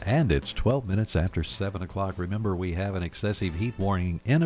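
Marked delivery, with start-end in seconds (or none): 0.1-2.2 much louder, booming greeting; loud news open. Acted. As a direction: open the newscast big and loud. News host opens loudly.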